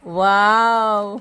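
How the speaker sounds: slow stretched spooky "वाव"; scary voice. Real, not acted. Child making a scary noise that could frighten the building's kids. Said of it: "असा आवाज काढला ना".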